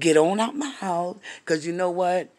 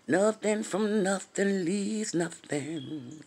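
slow saying; 3 semitones higher, 4 dB quieter, much slower than usual. Retold or imitated. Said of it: "You know that thing say".

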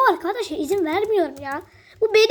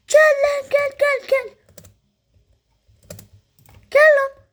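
loud taunt; 9 semitones higher, 4 dB louder, slower than usual. Real, not acted. Taunting an enemy in game.

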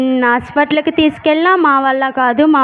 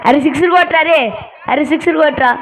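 cheering shout; 3 semitones higher, faster than usual. Acted. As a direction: yell at the batsman to hit sixes. Cheering batsman on TV.

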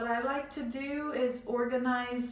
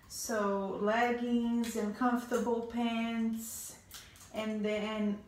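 slightly out of breath; short of breath while talking. Real, not acted. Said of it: "I'm out of breath".

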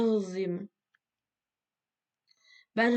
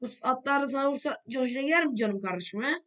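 mocking taunt; 4 semitones higher than usual. Real, not acted. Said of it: "repeated taunt".

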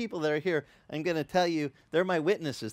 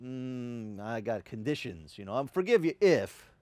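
conditional parent; 4 semitones lower than usual. Retold or imitated. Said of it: "they were always".

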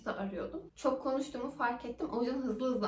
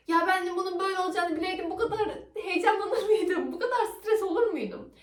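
laughing relief; 7 semitones higher, 7 dB louder than usual. Real, not acted. Laughing relief after tampon removal.

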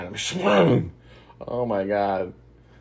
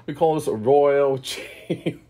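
put-on Australian accent; 5 semitones higher, 4 dB louder, much slower than usual. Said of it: "I get my accents mixed up".

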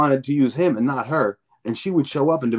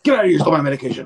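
mock yell; 2 semitones higher, much faster than usual. Retold fight, friend yelling.

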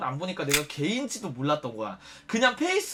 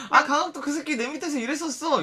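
mock bragging host; 8 semitones higher than usual.

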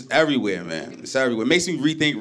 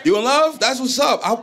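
hyped up; 10 semitones higher than usual. Real, not acted. Hyping up an audience member.

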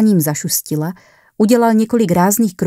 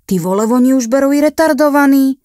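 laughing; 8 semitones higher, 5 dB louder than usual. A narrator's reading. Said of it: "Zajíkal se ze smíchem".

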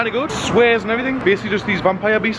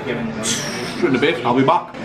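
Terminator voice; 4 semitones lower, much slower than usual. Retold or imitated. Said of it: "just be like".

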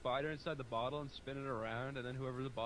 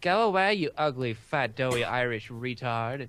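mock yell; 11 dB louder than usual. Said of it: "they'd all be like".

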